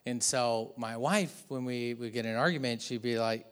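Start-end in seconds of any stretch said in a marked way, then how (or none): none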